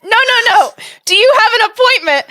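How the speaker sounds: high, loud, firm correction; lightly voiced insistent saleswoman; insistent dealership lady. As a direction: correct her patiently but firmly. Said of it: "And she goes".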